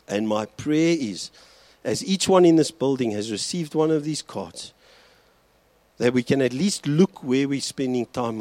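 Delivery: earnest pastoral prayer voice; closing prayer. Acted. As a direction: pray over the congregation, steady and heartfelt. Leads congregation in prayer.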